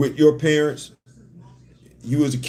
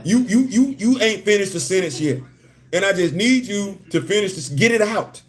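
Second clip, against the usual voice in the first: higher, impatient mock exasperation; pitched-up pleading to get it out; exasperated retort; 4 semitones higher than usual. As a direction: push them to finish the sentence. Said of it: "'Cause it was like".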